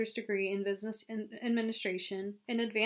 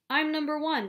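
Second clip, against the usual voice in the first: louder, higher victory cry; narrator's raised-voice boast; triumphant shout; 6 semitones higher, 6 dB louder than usual. A narrator's reading. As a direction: shout it like a champion. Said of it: "he shouted".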